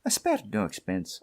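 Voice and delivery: a light Scottish lilt on "I spared no expense"; mild Scottish burr; Scottish accent. Retold or imitated. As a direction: toss off the line in a hint of Scottish. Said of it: "With that Scottish accent".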